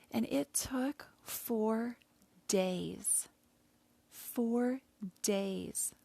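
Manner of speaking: slow, each "four" lifted and pressed; emphatic repetition. Real, not acted. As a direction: lean hard on "four" both times. Emphasizing how long apology took.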